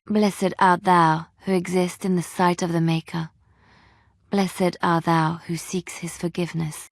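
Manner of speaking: measured liturgical intoning; prayer recitation. Acted. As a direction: recite it like a devotion in the chapel.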